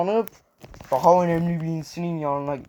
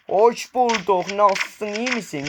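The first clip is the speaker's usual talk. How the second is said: higher, drawn-out singsong reply; playful mock politeness; 5 semitones higher, slower than usual. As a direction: answer slowly in a high, teasing voice.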